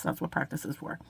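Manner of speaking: a soft afterthought repeat. Real, not acted. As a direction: echo it quietly to yourself. Repeats motto, second time softer.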